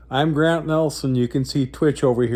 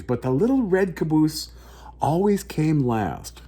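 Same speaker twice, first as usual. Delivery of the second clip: put-on slow, gentle read-aloud for children; story narration; 2 semitones higher, slower than usual. A narrator's reading. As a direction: tell it like a bedtime picture book. Reads picture book aloud.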